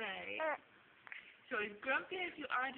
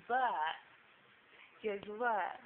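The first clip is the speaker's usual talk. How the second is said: loud; 6 dB louder than usual. Real, not acted. Complaining about nap loudly.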